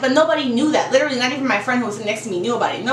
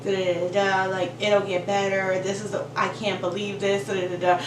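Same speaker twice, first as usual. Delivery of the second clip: comforting; 4 semitones lower, 3 dB quieter than usual. Retold or imitated. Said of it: "So I comforted her".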